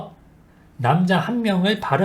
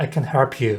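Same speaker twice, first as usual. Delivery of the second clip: HELP stressed, can light and slow. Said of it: "can은 약하게, help는 세게".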